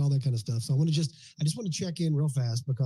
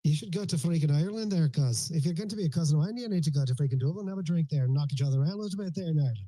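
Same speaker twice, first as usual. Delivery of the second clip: quick put-on Irish brogue; Irish accent. Shown as a demonstration. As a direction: play an Irish cousin. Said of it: "I can do freaking Irish".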